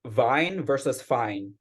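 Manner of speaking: "vine" with a hard V, "fine" with a soft F, slowly; slow V versus F contrast. Shown as a demonstration. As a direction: set "vine" against "fine", leaning on the V. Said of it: "if you replace the V with a soft F".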